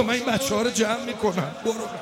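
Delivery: tag reassurance. Acted. Sister's reassurance, first take.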